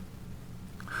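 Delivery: soft, breath-only scoff; nervous laugh. A narrator's reading. Scared woman brushing off an advance, nervous laugh. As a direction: let out a small voiceless laugh.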